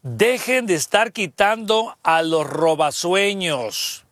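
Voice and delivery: slow, deliberate emphasis; emphatic. Real, not acted. Host driving advice home to listeners, slow and emphatic. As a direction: stress it slowly, word by word. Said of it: "lo voy a recalcar".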